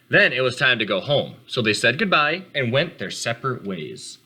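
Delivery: calm read-aloud storytelling voice; gentle storybook narration for kids; story narration. A narrator's reading. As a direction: read it to the class like a picture book. Teacher reads picture book to class.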